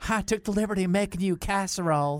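put-on Southern accent. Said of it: "Did you hear that accent?".

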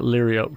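liriope said as LEER-ee-ope; mother's pronunciation. Shown as a demonstration. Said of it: "that's where my mother pronounced it".

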